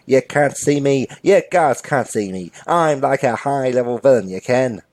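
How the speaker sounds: put-on accented crook making threats; impatient bank robber. Robber losing patience with bank clerk, comic accented menace.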